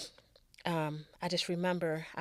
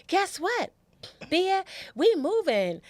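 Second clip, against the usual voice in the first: put-on high, excited little boy's voice; kid brother voice; 12 semitones higher, 8 dB louder, slower than usual. Little brother teasing his sister about moving, high childish voice. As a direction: sing it out like a seven-year-old bragging.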